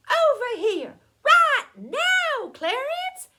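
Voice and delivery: loud, very high-pitched yell; hollering. A narrator's reading. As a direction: holler it to carry over the fence. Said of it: "he hollered again".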